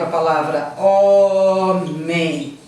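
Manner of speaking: homem said slowly and clearly with no h; silent h example. Shown as a demonstration. Teacher gives homem as an example, slow and clear. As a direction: stretch out homem to show the silent h. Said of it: "Se você fala, por exemplo".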